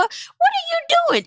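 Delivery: high, slow disbelief; incredulous high. Retold or imitated. Host mocking the tour outfit, slow and high. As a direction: stretch it out, baffled. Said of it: "I said".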